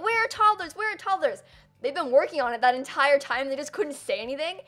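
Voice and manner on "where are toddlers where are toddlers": high, loud mocking demands; mock impatient fan. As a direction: chant it like an impatient crowd.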